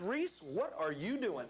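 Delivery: slow, drawn-out mock scolding; imitating an irritated mentor, slowly; stern demand. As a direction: retell a stern dressing-down, stretching the words. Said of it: "He's frowning".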